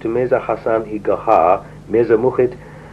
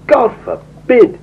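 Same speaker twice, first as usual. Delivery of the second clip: high, drawn-out cry of refusal; exclaimed protest; 12 semitones higher, 4 dB louder, slower than usual. A narrator's reading. Mullah Hussein rejects the disciples' pledge, exclaiming in high-pitched protest. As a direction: exclaim it slowly, pitched well up. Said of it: "exclaimed Mullah Hussein".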